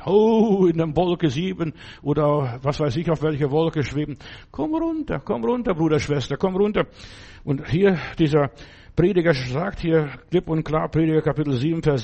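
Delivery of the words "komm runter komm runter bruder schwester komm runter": pleading call, pitched much higher. Real, not acted. Preacher calling believers down from cloud nine, high urgent call.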